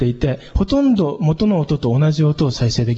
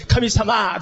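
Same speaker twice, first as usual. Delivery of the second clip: careless; 5 semitones higher than usual. Shown as a demonstration. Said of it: "そんななんか投げやりな".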